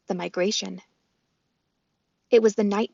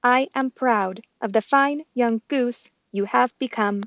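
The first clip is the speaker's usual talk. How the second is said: robot voice; 3 semitones higher, 3 dB louder, slower than usual. Acted. Roz the robot speaks.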